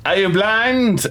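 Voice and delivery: high, slow, offended disbelief; a hammed-up affronted lord, huffing at the healer; indignant noble. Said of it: "and then he goes".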